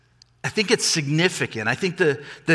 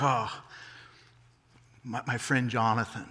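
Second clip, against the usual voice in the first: softer, understated wonder; tender recognition; 2 semitones lower, 8 dB quieter than usual. Acted. King seeing his late friend in the son, tender. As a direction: let the friend's name come out gently.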